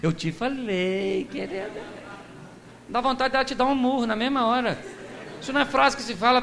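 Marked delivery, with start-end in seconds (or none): 0.0-2.0 smug husband. Retold or imitated. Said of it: "Marido gosta de falar isso pra esposa".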